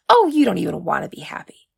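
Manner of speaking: breathy, whispered jab of frustration; exasperated whisper. Acted. Oriaku exasperated at Uma, whispered. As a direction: throw the line away in a whisper.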